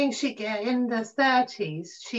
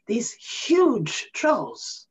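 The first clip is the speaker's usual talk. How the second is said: put-on slow hushed whisper of childhood wonder; whispered, drawn-out awe; awed whisper; much slower than usual. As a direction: breathe it out in awe. Childhood awe at huge trolls.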